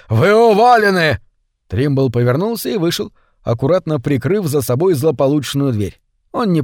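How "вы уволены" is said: much higher and louder, shaking with rage; furious. A narrator's reading. The director fires Trimble, furious roar. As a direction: fire him in a blind fury. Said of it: "трясясь от ярости".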